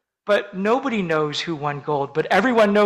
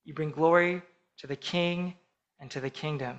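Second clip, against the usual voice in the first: usual speaking voice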